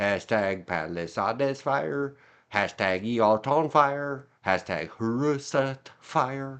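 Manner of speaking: slow, robotic, text-to-speech computer voice. Reading hashtags from a press statement aloud: imitating a computer voice. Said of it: "I love when the computer voice reads".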